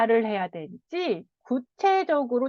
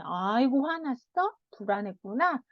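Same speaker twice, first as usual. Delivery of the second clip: softer, gently comforting; gentle counselor; 3 dB quieter than usual. Shown as a demonstration. Counselor soothing the anxious boy, soft and gentle. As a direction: ask it softly, soothing the child. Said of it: "저랑 이렇게 상담하면서".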